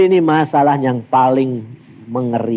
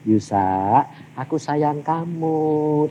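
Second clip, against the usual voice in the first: lembut dan pelan, agak lebih lirih; suara halus lembut; 3 semitones lower, 6 dB quieter, much slower than usual. Retold or imitated. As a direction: ucapkan pelan penuh sayang, seperti Tuhan membujuk. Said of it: "suaranya itu halus terus". (suara Tuhan yang halus, pelan dan penuh kasih)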